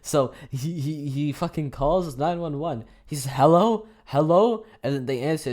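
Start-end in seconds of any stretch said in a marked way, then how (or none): 3.3-4.6 calling hello. Retold or imitated. Guy calling nine one one.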